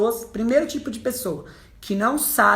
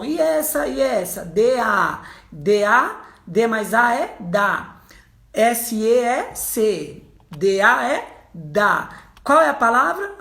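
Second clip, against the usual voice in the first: mother spelling out each syllable slowly, louder; slow phonics drilling; 3 dB louder, slower than usual. Retold or imitated. Mother teaching her son to read, slow and syllable by syllable. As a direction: drag every syllable out like teaching a child to read.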